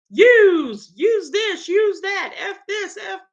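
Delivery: high, hammed-up Rhode Island yous; imitating the New England in-laws in a high Rhode Island accent; mock Rhode Island accent. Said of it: "a lot of yous from them".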